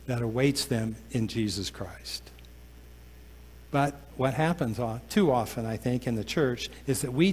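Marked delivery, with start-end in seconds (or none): 0.1-2.3 whispered. Acted. Preacher drops to a hush.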